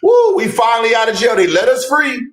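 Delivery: mock-jubilant cry, pitched well up; Brandon. Reminding listeners how Brandon came in, high mock celebration. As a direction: imitate a freed man's whooping celebration, rising high at the end. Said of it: "y'all remember Brandon come".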